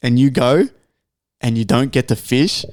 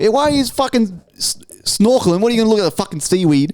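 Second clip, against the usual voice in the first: mocking jeer; 7 semitones higher than usual. Mocking the snorkelers.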